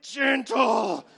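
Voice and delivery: a loud, sharp gentle; exasperated shout. Retold or imitated. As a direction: snap it out at a rough baby.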